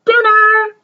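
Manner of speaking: high, loud call to dinner. Acted. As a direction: call the family to the table. Mom calling kids to dinner.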